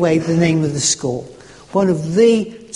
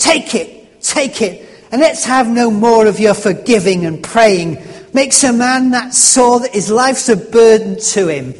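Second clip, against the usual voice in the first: angry rough man; 3 semitones higher, 4 dB louder than usual. Retold or imitated. Drunk Bill shouting at Christians.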